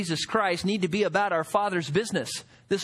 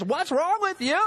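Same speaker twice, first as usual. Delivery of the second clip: mother scolding; 9 semitones higher than usual. Retold or imitated.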